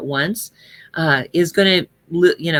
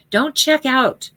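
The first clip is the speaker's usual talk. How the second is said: slow emphatic; 7 semitones higher, slower than usual. Real, not acted. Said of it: "slow down and say it with meaning".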